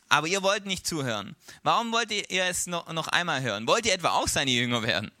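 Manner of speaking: mildly exasperated comeback; fed up. Acted. Healed man challenging his questioners, fed up. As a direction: needle them with impatient questions. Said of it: "wird's dem halt langsam auch zu blöd".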